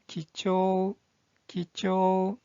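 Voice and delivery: 기초 with a long, held final vowel; pronunciation demo. Shown as a demonstration. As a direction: model 기초 for learners, stretching the 초. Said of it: "이 한자의 발음은".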